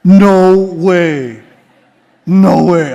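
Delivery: laughing no way, mock astonished; incredulous chuckle; laughing disbelief. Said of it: "I said".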